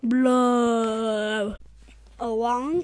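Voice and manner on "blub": bubbly fish sounds. Acted.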